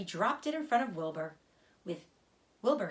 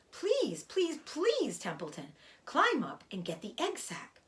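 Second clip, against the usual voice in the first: pleading; 6 semitones higher than usual. Acted. Wilbur begs Templeton for help.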